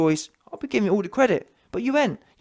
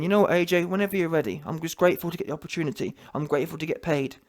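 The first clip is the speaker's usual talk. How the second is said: mock humble gratitude; 4 semitones lower, 4 dB quieter, faster than usual. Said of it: "I'll be saying".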